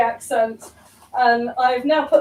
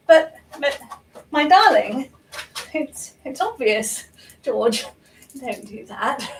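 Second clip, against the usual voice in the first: lightly voiced prim comedienne impression; Joyce Grenfell. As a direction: do a light send-up of a British comedienne. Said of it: "I'd be the perfect Joyce Grenfell".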